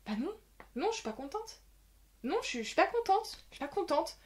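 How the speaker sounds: high, sulky complaining; whiny protest. Retold or imitated. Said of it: "mais en mode, bah non".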